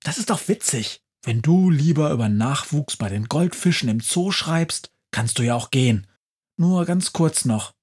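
cheeky Christmas witch defending her plan; high-pitched chatty witch, fast bursts; lively witch. Acted. Witch Befana teasing crow.

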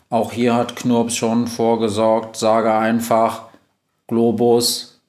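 slow, monotone robot voice; measured, even computer delivery; robot Globus. Acted. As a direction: speak like a talking machine, word by word.

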